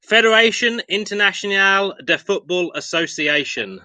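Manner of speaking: self-mocking French accent on the full name; a light French accent, half in jest. Shown as a demonstration. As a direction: lay on your best French accent. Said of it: "with my very best French accent there".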